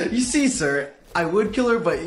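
nervous stalling. Acted. Boyfriend stalls the boss nervously.

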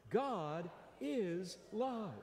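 slow drawn-out unison line; slow call-and-response. Shown as a demonstration. Preacher leading the congregation again, slowly. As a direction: lead them through it slowly. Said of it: "Will you say that with me again?".

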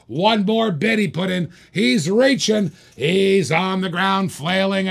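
live auction hype about a bidder; hyped commentary. Real, not acted. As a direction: work the crowd up.

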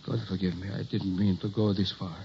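anguished confession. Acted. Doctor confesses his experiment.

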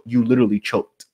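hushed whisper of disbelief; whispered, almost to himself. Shown as a demonstration. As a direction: drop to a whisper for the punchline. Repeated choked line, whispered take.

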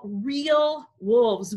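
usual speaking voice

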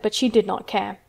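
ordinary delivery, nothing marked

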